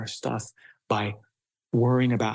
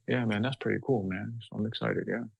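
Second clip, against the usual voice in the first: flat excitement. Shown as a demonstration. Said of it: "Is it like".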